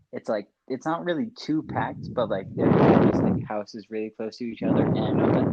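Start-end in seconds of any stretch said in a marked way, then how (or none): 2.2-5.5 loud breaths into the mic; breathing hard between words; heavy nose breathing. Real, not acted. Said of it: "stop breathing into the mic".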